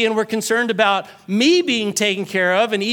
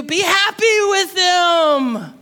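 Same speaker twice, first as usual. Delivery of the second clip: preaching shout; 7 semitones higher, much slower than usual. Acted. Preaching emphasis.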